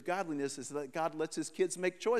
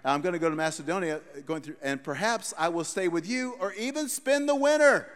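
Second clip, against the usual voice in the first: scripture reading. Acted. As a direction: read it like a grand proclamation. Reads verse, mock-modern wording.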